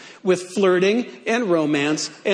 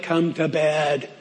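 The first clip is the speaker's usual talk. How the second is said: gravelly voice; 4 semitones lower, 3 dB quieter than usual. Acted. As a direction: purr it low and gravelly. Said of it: "Gotta give her kind of a gravelly voice".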